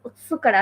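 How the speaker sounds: "ওসুকারে" with the u swallowed, like oskare; silent u. Shown as a demonstration. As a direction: glide from s straight to k in "ওসুকারে". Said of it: "ওটা আসলে উজ্জ থাকবে".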